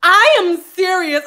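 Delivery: slow, emphatic white-lady warning; stern white lady. Retold or imitated. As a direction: lightly mimic a white lady laying down the law. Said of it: "whenever a white lady does".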